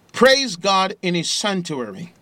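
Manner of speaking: loud and high, "Praise" hit hard with a rising end; booming scripture reading. Real, not acted. Preacher calling the radio audience to praise, loud and high. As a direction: shout the praise to the rafters. Reading Psalm at full force.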